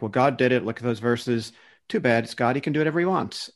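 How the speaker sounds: imitating a glib believer, pitch lifting at the end; callous dismissal. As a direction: brush it off callously, as others do. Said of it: "that's a callous way".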